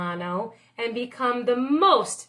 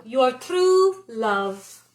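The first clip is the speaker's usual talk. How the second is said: very slow, lingering close; slow, tender signature; tender sign-off; much slower than usual. Acted. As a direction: sigh it out like a lover. Signing the love letter.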